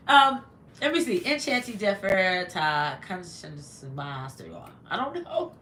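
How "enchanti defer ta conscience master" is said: slow, halting try at French words "Enchanti defer ta conscience master"; fumbled French pronunciation, said slowly; clumsy French. Real, not acted. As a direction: sound out the French words carefully, unsure. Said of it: "I chopped that all up, even trying to pronounce".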